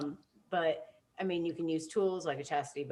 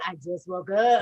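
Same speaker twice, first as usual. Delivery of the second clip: mock sleepy voice; 7 dB louder than usual. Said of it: "Why is your voice sound like".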